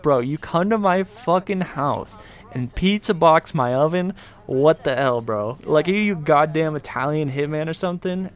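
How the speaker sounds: mock outrage. Host scolds friend for pizza boxing the oven, mock outrage. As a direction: chew out a buddy in mock disbelief.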